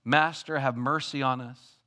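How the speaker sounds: mild mock plea; pleading cry. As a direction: beg for mercy from afar. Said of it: "now they're saying".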